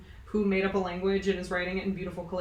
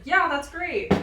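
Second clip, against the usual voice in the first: mock enthusiasm; 9 semitones higher, 5 dB louder, slower than usual. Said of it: "everyone's like".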